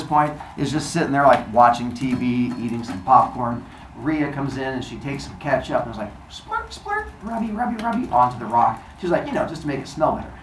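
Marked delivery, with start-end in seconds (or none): 6.3-8.1 soft, high squirt and rub noises; playful little sound effects. Retold or imitated. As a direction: act out ketchup squirting and rubbing, quietly. Imitates squirting and rubbing ketchup.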